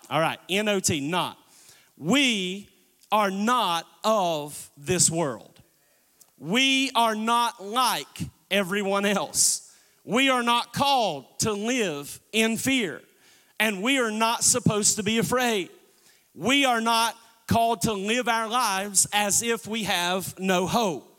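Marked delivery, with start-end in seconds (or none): 3.1-5.5 not held out slow and heavy; are not of this world with not weighted; stress on not. Shown as a demonstration. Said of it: "The emphasis on the word not". 6.4-20.4 every not leaned on, unhurried; stress on not. Shown as a demonstration. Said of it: "The emphasis on the word not".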